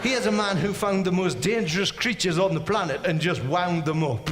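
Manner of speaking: ordinary delivery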